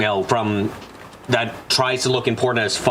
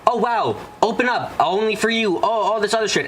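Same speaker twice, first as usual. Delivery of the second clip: mock junk mail pitch; 7 semitones higher than usual. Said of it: "That's like".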